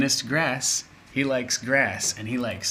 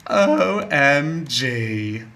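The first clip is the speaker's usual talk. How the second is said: drawn-out, loud O M G; excited; 3 semitones higher, 7 dB louder, much slower than usual. Real, not acted. Teacher to students, excited drawn-out O M G. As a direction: spell it out loud and slowly in delight.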